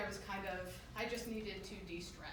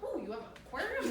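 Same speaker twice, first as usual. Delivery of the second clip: mock excited; 8 semitones higher, faster than usual. Faking interest to officer.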